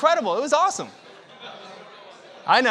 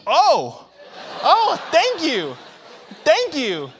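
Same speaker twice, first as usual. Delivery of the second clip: high, loud, slow breathless thanks; relieved thanks; 10 semitones higher, 9 dB louder, much slower than usual. Retold or imitated. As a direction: gasp out thanks, safe on shore. Relieved after escaping stingray.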